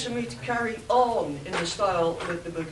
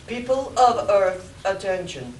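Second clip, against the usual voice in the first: Martian overlord voice; 6 dB louder than usual. Acted. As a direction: proclaim like an alien king. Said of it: "the Martian's voice spoke".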